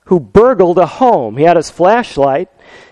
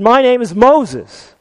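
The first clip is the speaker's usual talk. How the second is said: parrot proud; 6 semitones higher, slower than usual. Retold or imitated. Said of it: "the parrot said".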